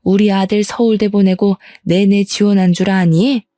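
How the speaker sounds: lightly voiced scornful elder; cantankerous mother-in-law. Mother-in-law berating her son's fiancée, mildly cantankerous. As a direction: scold her with a touch of disdain. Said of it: "괴팍한 시어머니의 두통 온다는 표정".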